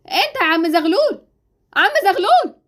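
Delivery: drawn-out call, rising on the last try; impatient calling out. Acted. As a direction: call the doorman who keeps ignoring you. Calls again, no answer. (بتنادي بنفاد صبر)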